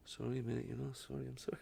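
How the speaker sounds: soft, mumbled sorry; sheepish apology. Retold or imitated. Boss mumbling apology to fired comedian, soft sheepish. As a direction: apologise under your breath. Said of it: "he was like".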